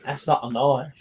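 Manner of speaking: lightly voiced Australian film quote; playful Aussie bushman impression; Crocodile Dundee. Player joking about the father, Crocodile Dundee impression. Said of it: "Crocodile Dundee".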